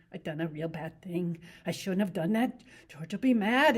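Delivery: Lenny. Acted. To Curly's wife about rabbits, eager simple voice.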